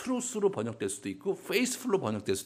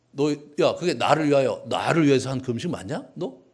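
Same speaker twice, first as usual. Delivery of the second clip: angry rebuke; 2 semitones higher, 11 dB louder than usual. Pretend. Preacher acting God scolding the fasting people. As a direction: scold them like an offended parent. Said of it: "이렇게 얘기하신 거잖아요".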